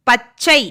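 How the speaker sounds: "பச்சை" split at ச், second beat punched; doubled consonant demo. Shown as a demonstration. Teacher helping children learn the letter's sound, split-word demo. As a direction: hold the stop in "பச்சை", then release சை firmly. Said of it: "அந்த எழுத்தோட உச்சரிப்பு தெரியும்".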